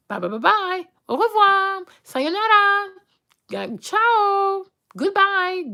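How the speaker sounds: high, playful farewells tossed off one after another; sing-song mocking goodbyes. Real, not acted. Dismissing the fake friend with high teasing goodbyes. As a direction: wave them off in a high mocking lilt.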